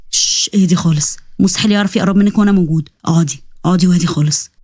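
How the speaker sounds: low, calming reassurance; gentle acted comforting; soothing. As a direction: hush and settle someone frightened. Rescuer calms the frightened girl.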